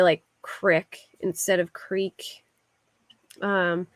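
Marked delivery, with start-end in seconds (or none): 0.0-2.4 "crick" said short with an i, then "creek" with long ee; "crick" clipped, "creek" stretched, slowly. Shown as a demonstration. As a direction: contrast Philly "crick" against "creek". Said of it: "we say".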